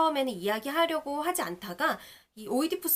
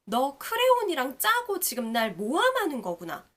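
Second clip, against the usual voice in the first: angry accusation; 3 semitones higher, 4 dB louder than usual. Retold or imitated. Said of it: "화를 냅니다".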